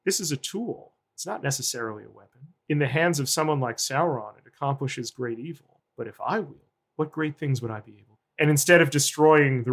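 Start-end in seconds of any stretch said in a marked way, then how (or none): 0.0-8.2 softly voiced musing; hushed quote. Isildur looking at the ring and tempted, hushed. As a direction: drop to a softer voice, as if musing to oneself.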